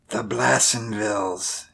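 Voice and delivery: put-on soft old man's mutter; hushed, drawn-into-memory murmur. A narrator's reading. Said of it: "he muttered".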